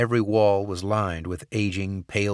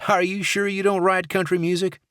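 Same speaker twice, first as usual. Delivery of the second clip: lively guard voice; 12 semitones higher, 4 dB louder than usual. Acted. Dixon, the country guard.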